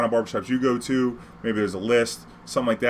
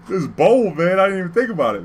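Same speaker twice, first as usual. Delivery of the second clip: higher and louder, suddenly alarmed; startled; 7 semitones higher, 5 dB louder than usual. Retold or imitated. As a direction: realise you are flashing gold in the wrong place. Startled realising danger.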